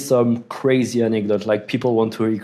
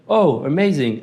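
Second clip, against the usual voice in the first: mock cheerful reply; 4 semitones higher than usual. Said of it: "I was like".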